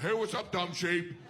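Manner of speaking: mock friendly taunt to a sheep; smug human. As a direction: tease the sheep lightly. Humans greeting sheep in sweaters.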